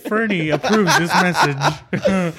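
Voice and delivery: drawn-out, laughing ad disclaimer; lightly hammed-up endorsement tag; mock announcement. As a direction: read it like a campaign sign-off, amused. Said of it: "a public service announcement".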